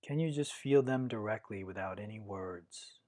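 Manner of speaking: calm, measured meditation guidance with long pauses; guided meditation. Acted. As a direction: guide listeners inward, one unhurried phrase at a time.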